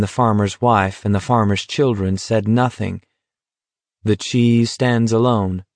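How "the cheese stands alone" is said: slow, spoken with a dazed edge; crazily. Acted. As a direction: say it like a giddy thought. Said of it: "Garrity thought crazily".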